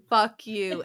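a giggly, affectionate jab; laughing fuck you. Real, not acted. Host laughing at her own sign-off. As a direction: laugh through loving fuck you, stretched slow. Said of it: "it's an endearing".

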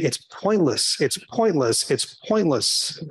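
slow, low droning nag; nagging inner voice. Retold or imitated. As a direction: let the voice in his head keep repeating. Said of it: "nagging voice in the back of my head".

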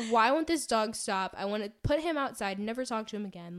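retold exasperation. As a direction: play up being fed up with the dog. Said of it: "I'm just angry".

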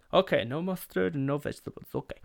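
high-pitched, over-accommodating waiter voice; Julio from The Simpsons. Retold or imitated. Waiter confirming a picky brother's burger order, camp cartoon waiter. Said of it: "I know that was Julio from The Simpsons".

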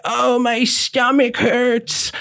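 put-on high, drawn-out Jewish-accent whine; Woody's Jewish accent. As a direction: stretch it out in a hammy Jewish comic accent. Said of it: "that was pretty good accent".

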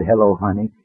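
soft, low, tender greeting; sweet little voice. Retold or imitated. Mother answering her son's call, soft sweet voice. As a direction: greet your child gently and quietly. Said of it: "such a sweet little voice".

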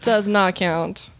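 slow, spaced-out Does not count; each word stressed. Real, not acted. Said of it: "Doesn't count".

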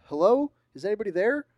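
loud, high eerie repeat of a questioning call; echoed identical call. Acted. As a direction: mimic the call from the hallway's far end. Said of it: "in the exact same voice".

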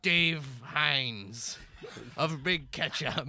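gloating villain reveal, slow on the key words; a hint of a cackling supervillain; evil villain monologue. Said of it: "trying to monologue about my evil plans".

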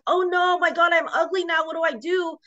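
mocking a self-pitying husband, high-pitched. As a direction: sneer at his vanity in a high whine. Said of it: "he was just like".

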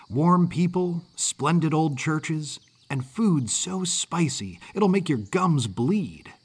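lightly voiced friendly kid with a Northern accent; chatty Yankee boy. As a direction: chatter confidently like a well-travelled boy. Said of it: "accent of a mid-Atlantic Yankee".

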